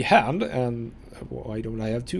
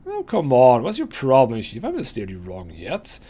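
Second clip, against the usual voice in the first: a brash, loud protest; cheeky skull sidekick; 6 dB louder than usual. Acted. Morte brushing off the player's suspicion, brash and loud. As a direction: push back like a wisecracking sidekick.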